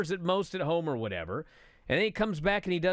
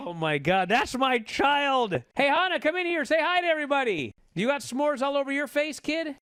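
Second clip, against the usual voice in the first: calling out; 9 semitones higher, 3 dB louder than usual. Real, not acted. Calling his kids into the room.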